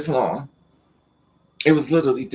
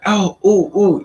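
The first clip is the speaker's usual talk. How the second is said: mock moaning; 5 semitones higher, 5 dB louder than usual. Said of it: "I'm thinking he would be more like".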